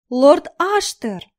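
high, slow, squeaky and cloying. Acted. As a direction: squeal his name like a clingy fan. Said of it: "неприятным писклявым голосом".

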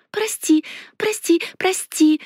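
high, unvoiced begging; pleading whisper. A narrator's reading. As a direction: whisper a frantic apology. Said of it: "взмолилась я". (умоляющий шёпот)

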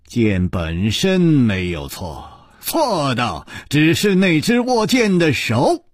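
slow, weighty delivery; word by word. Acted. Chu fixes her with his gaze, answering slowly, word by word. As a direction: space out every word deliberately. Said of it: "一字字地说".

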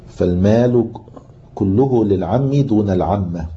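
slow, measured reading from a book; deliberate classical Arabic recitation of a legal note; formal text reading. Acted. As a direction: read the text out slowly, stretching phrase endings. Reads aloud from the book.

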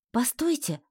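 protesting. A narrator's reading. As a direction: stop them, pleading. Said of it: "запротестовала я".

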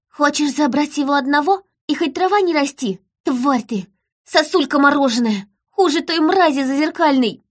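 high-pitched, indignant tirade; angry child. A narrator's reading. Daughter defying the winter queen, high angry tirade. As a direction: hurl insults in a high child's voice.

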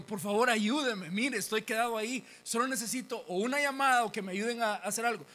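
high, loud appeal for help; acted pleading. Stranded man begs the lady for help, loud pleading. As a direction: plead your case urgently.

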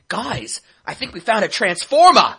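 put-on loud, high Boston-accented exclamation; thick Boston accent. Co-host mimics the actor's trailer line, thick Boston accent. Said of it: "he has a thick Boston accent".

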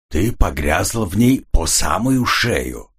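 slow, icy, measured reply; cold retort. Acted. Corridan coldly cornering Rita, slow and icy. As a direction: lay it on her coldly and slowly. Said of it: "холодно возразил Корридон".

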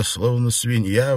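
usual speaking voice

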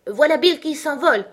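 high, loud excited cry; exclaiming crowd. A narrator's reading. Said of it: "plusieurs voix qui s'exclamaient en chœur". (exclamation vive et forte)

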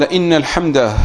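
إن with an i vowel under the hamza; kasra on إن. Shown as a demonstration. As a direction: read إن as "inna", not "anna". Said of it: "بكسر الهمزة".

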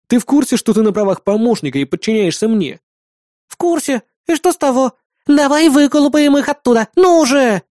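put-on high, eager, pushy girlish voice; a bratty young woman pressing her point; stubborn girl Bismarck. Бисмарк спорит с Сэвиджем. (упрямая девчонка, высоким настойчивым голосом)

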